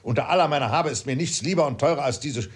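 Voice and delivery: touch of flustered outrage; indignant father. Acted. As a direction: stumble over words in mild indignation.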